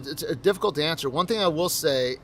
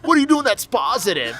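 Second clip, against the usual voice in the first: put-on pleading boyfriend; 8 semitones higher, 5 dB louder than usual. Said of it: "repeating the boyfriend's line".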